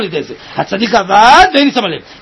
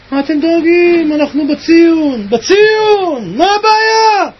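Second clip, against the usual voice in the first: ביטחון מרגיע; 3 semitones higher, slower than usual. Retold or imitated. Answering hungry people's worry confidently.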